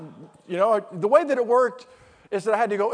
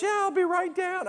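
put-on girl's voice; 10 semitones higher than usual. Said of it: "She goes".

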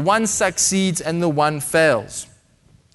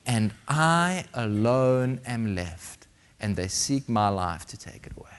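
despairing whisper; 5 semitones lower, 6 dB quieter than usual. Acted. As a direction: breathe out Elijah's hopelessness. Elijah's despairing words, read aloud.

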